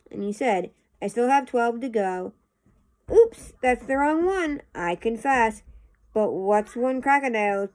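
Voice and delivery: lively sing-song storybook reading; poem read-aloud. A narrator's reading. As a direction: read the verse out with bouncy, expressive stress.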